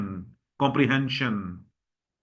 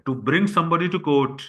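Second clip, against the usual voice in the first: slow definition; much slower than usual. Shown as a demonstration. Teacher defines word slowly.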